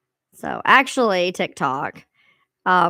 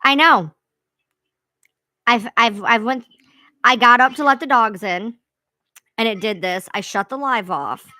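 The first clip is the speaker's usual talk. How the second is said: pitched up chipmunk sound; helium voice; 6 dB louder than usual. Real, not acted. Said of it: "You sound like you're on helium".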